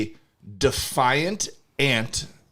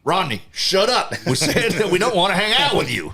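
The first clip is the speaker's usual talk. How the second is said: aggressive peach; 8 semitones higher, 3 dB louder than usual. Acted. Peach telling Rodney the others don't want him, angrily. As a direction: tell him off hard, like an annoyed peach. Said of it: "that was an aggressive peach".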